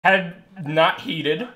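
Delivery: talking with a mouthful of food; chewing through the words; mouth full. Real, not acted. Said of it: "I'm gonna do the recap with my mouth full of food".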